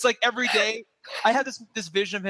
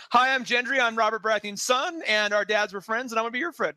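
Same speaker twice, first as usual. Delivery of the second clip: eager Gendry; 5 semitones higher than usual. Retold or imitated. Quotes eager Gendry introducing himself.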